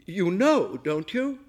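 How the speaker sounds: high, loud accusing question; suspicious alarm. A narrator's reading. Guest backing away from the chef, high alarmed accusation.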